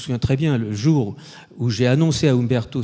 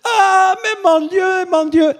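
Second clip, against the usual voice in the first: much higher and louder cry of dismay; the wife wailing at the news; horrified gasp; 7 dB louder, much slower than usual. Retold or imitated. (consternation, voix très aiguë et forte)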